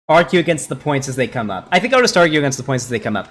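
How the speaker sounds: short of breath, talking on; winded, squeezing words out. Real, not acted. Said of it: "running out of breath here".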